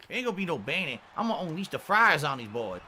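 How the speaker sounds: lightly hammed Southern colonel; a bit of bad Southern swagger; terrible southern accent. Costumed streamer threatening his chat, mock Southern accent. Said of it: "this terrible southern accent".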